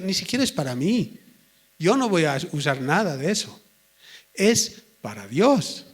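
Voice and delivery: mild mock innocence with swooping emphasis; lightly acted excuse, stretching the final phrase; self-justifying protest. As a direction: plead your innocence, a little hammed-up. Acting Saúl justifying himself.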